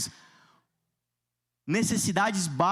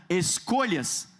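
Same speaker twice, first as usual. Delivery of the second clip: voz de profeta; slower than usual. Acted. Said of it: "Diga comigo com voz de profeta".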